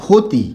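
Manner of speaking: ক্ষতি said with an aspirated kh at the start, like খতি; careful teacher demo of ক্ষতি; kh sound demo. Shown as a demonstration. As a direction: say ক্ষতি as khoti. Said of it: "আর একটা শব্দ লিখলাম হচ্ছে".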